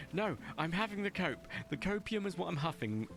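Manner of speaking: high-pitched hyped certainty; overconfident, all in on the cope; hyped-up coping. Acted. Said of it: "The cope is real".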